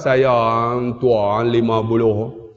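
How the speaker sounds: put-on low, slow, tired old-man excuse; mock old man. Listener claiming he is too old to learn, in a slow mock old voice. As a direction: drag it out like an aging man giving up.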